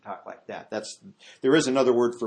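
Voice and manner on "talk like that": lower, softer confidential voice; into the ear. Shown as a demonstration. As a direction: drop it as if speaking into someone's ear. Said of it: "get up to the ear".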